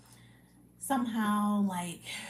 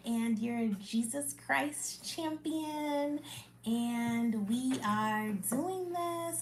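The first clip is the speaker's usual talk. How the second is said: slow, higher, tender encouragement; warm affirmations; 4 semitones higher, slower than usual. Real, not acted. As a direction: speak each affirmation gently and slowly. Closing affirmations to viewers.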